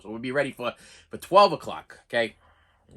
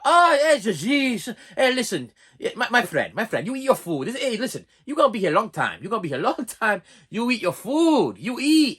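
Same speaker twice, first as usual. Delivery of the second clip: mothering Portuguese lunch lady; 4 semitones higher than usual. Retold or imitated. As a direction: coax him to eat like a doting lunch lady. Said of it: "wonderful Portuguese woman".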